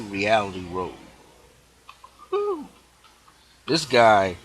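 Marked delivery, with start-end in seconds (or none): 2.3-2.7 high, airy whistled "whew"; marveling exhale, pitched high; impressed whew. Real, not acted. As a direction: let out a high whew of amazement. Marvels at the author's knowledge.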